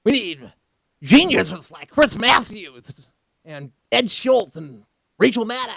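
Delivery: a light cartoon sneer; cartoonish voice. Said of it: "Why'd you do that cartoonish vo".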